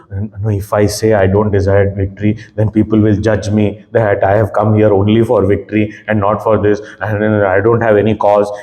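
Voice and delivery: low, even voice of self-doubt; low-pitched imitation of someone reasoning to himself; voicing inner doubts. Arjuna reasoning with himself about victory, low self-doubting voice.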